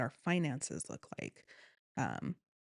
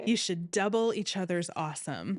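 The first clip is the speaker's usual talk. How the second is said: louder Hawaiian surfer accent, hammed a bit; Hawaii surfer boy; 3 semitones higher, 5 dB louder than usual. Repeating the friend's advice in a hammed Hawaiian surfer accent. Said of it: "Hawaii surfer boy".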